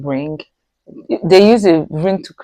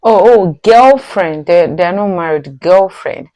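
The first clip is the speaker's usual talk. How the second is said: surprised; 5 dB louder than usual. Real, not acted. Shocked they are unmarried.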